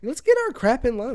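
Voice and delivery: high, loud mock outburst; mock argument. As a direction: fake bickering at the cohost. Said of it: "Hate it when you guys fight".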